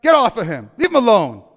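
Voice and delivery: acted yell to break up a fight. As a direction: call out loud and high, scolding the boys. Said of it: "he starts yelling".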